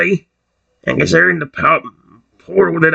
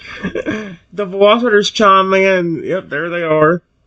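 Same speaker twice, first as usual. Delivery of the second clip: usual speaking voice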